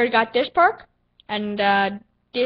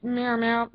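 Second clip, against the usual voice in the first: lightly imitated cat meow; meow sound effect; 5 dB quieter than usual. Gamer doing random sound effects, playful meow. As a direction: toss in a small mock meow. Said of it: "do some random sound effects".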